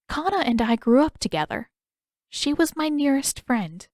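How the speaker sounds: put-on an old woman remembering a dear friend; Yugoda, fond and nostalgic; wistful Yugoda. Yugoda recalls her friend Kana.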